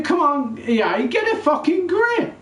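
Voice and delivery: real angry shout at the game makers. Real, not acted. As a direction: blast it out, fed up and raging. Ranting at EA over FIFA.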